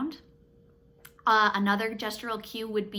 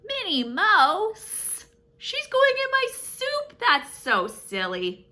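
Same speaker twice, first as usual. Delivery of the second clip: put-on high, slow, thrilled kids voice; hammed-up delight for children; excited gasp; 12 semitones higher, 8 dB louder, slower than usual. Excited silly reveal to kids.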